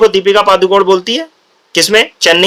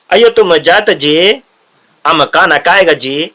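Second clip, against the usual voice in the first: South Indian accent; 2 semitones lower, much slower than usual. Shown as a demonstration. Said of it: "लेकिन देखो tone क्या है".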